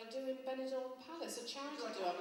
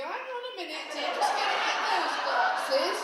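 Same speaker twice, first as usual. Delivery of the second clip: a doddery pensioner stalling; old dear voice; 6 semitones higher, 15 dB louder than usual. Retold or imitated. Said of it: "they go".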